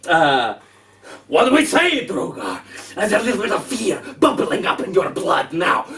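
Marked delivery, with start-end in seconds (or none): 1.3-5.8 lightly voiced menacing vampire; villain taunt. Strahd taunting Drogar, a lightly voiced menacing sneer. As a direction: taunt him with a hint of relish.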